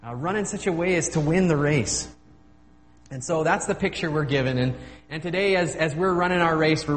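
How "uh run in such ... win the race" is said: urging a runner on, lightly acted; half-voiced cheer from the stands; mild cheering on. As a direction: draw out the go, then push a little higher. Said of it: "they're cheering us on and saying".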